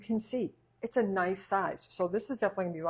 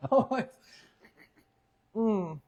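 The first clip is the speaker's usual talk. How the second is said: talking through food; mouth full; 4 semitones higher, 5 dB louder than usual. Real, not acted. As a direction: speak round a mouthful. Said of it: "don't talk with your mouth full".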